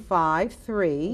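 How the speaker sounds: slow, separated digits. Shown as a demonstration. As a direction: read it out slowly so it can be noted. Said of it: "I'm gonna say it slower".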